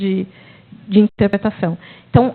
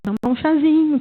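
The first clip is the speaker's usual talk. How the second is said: soothing teacher; 4 semitones higher, 4 dB quieter than usual. Retold or imitated.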